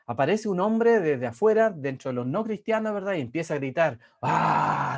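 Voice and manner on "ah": imitating a man's demonic shout; mock yell like a demon. Preacher imitating a provoker's demonic yell. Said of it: "Así como un demonio".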